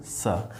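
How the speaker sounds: isolated "सा" with clear S; teacher models "सा" for CY; sound demo. Shown as a demonstration. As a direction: answer with "सा" as a lone sound. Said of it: "हम क्या बोल रहे हैं".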